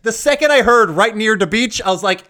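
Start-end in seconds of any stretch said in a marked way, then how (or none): 0.9-1.8 light mock Jamaican accent, raised pitch; mock fake Jamaican. Podcaster recalling the line he heard, mock Jamaican accent. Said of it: "has a terrible fake accent".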